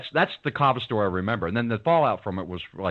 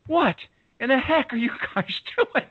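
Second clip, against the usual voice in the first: high, loud mock outrage with a laugh; exasperated speaker; 14 semitones higher, 3 dB louder than usual. The speaker finding his friends at a brawl, mock exasperated and loud. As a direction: play the boss catching you in trouble. He arrives, finds fight aftermath.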